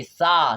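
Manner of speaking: open, drawn-out 'aa' ending on सा; corrected syllable. Shown as a demonstration. Teacher corrects his slip for pupils, long aa syllable. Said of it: "सी क्यों बोल दिए भाई?".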